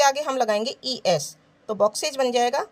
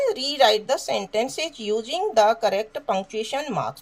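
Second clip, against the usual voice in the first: very slow, word by word; slow dictation; much slower than usual. Shown as a demonstration. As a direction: read the task slowly. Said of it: "reads instruction aloud".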